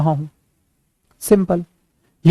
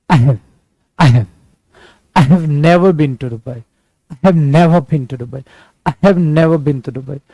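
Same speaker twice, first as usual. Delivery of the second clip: slow native-speaker English accent demo; 2 semitones lower, much slower than usual. Shown as a demonstration. Teacher showing how native speakers say it, native English accent. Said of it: "अगर accent आप native speaker इसको बोलते हैं कैसे".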